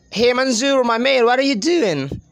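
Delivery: linked-up, chummy British English greeting. Shown as a demonstration. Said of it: "British English people say".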